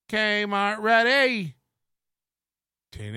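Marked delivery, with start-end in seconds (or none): 0.1-1.6 high, drawn-out delighted cry of the name; excited find. Real, not acted. Going through his old files, he finds the clip and cheers. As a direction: crow it like you just struck gold. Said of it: "Is there anything called Kmart Ready?".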